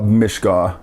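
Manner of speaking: "bimishka" said as bmishka, first vowel dropped; syncopated form. Shown as a demonstration. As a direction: run b straight into m at the start of "bimishka". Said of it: "syncopated short vowel dialects".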